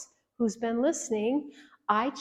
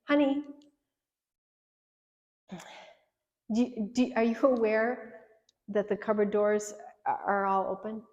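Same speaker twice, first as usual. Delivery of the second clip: genuine. Shown as a demonstration. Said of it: "I have to say it genuinely".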